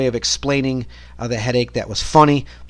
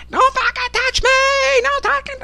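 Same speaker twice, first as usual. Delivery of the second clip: screaming woman. Retold or imitated. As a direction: stretch it out like a raging patient. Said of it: "she's screaming in this room".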